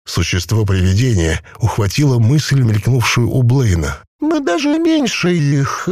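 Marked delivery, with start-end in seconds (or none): 4.2-5.9 a possessed corpse bubbling out its words; gurgling voice. A narrator's reading. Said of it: "Некто запнулся".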